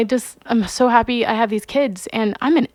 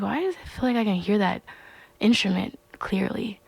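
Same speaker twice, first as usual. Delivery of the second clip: hushed wonder; 7 dB quieter than usual. Retold or imitated. Awed inner question.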